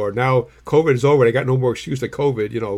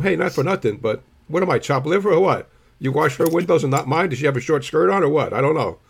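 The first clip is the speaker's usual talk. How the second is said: indignant complaint; 4 semitones higher than usual. Retold or imitated. Complaining to attendant.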